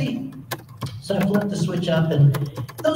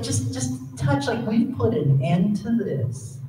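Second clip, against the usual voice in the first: gleeful controller; 3 semitones higher, slower than usual. Retold or imitated. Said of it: "a little glee in the controller's voice".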